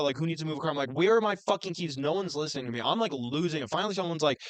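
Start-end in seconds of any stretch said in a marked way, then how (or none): 0.9-2.0 mild mock yell, raised pitch; exasperated demand to the room; frustrated but not truly shouting; retold yelling. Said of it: "I'm yelling in this house".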